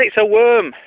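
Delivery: high, loud comic outrage; fuming. Acted. Fuming customer revealing what's in his pie, acted outrage. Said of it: "absolutely fuming".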